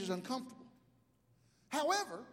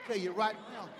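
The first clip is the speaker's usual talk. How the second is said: low, softer mock sass; sassy wife; 3 semitones lower, 5 dB quieter than usual. Husband retelling his wife's warning, mock sassy. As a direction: imitate a wife's warning under your breath. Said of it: "she ain't even black and started to".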